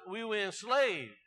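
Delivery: "enslaved" pressed with a falling close; stress on enslaved. Shown as a demonstration. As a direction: hit the word "enslaved". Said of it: "let's emphasize".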